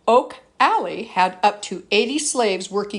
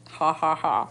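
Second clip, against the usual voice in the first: laughing; 5 semitones lower than usual. Real, not acted. Laughs at own joke.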